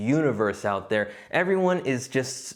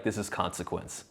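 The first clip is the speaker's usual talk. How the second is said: grave; 6 semitones lower, 8 dB quieter than usual. Retold or imitated. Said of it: "his response immediately was like".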